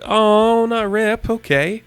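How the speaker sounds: high, quick mock shock then acceptance; mock dismay. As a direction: pretend to be crushed, then shrug it off. Reader reacts to Rip arrested.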